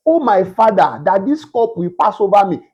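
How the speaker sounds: calm, steady prayer of a son; dignified plea. Shown as a demonstration. Preacher voicing Christ's calm prayer to his Father, steady. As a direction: ask as a son, not a beggar. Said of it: "That is how a son talks".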